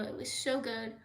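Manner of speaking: normal talking voice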